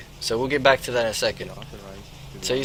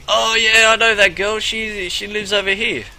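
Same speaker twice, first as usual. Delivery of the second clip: higher, louder eager local; eager helpful guy; 6 semitones higher, 5 dB louder than usual. Retold or imitated. Passerby eagerly pointing the pimp to the girl's house. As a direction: play the friendly stranger keen to help. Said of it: "he's like".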